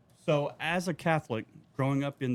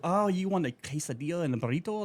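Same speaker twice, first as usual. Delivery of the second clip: showy Spanish pronunciation, higher pitched; imitated Spanish-accented order taker; mock Spanish accent; 3 semitones higher than usual. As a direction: repeat the order back in an overdone Spanish accent. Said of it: "And they'll go".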